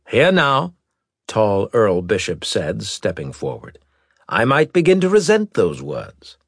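haughty noble, high and loud; offended noble. Acted. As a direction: warn him with offended dignity. Earl offended.

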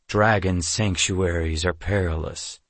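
low, mildly grim warning. Acted. Amulon warns of dragon sanctuaries, grimly. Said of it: "Amulon said grimly".

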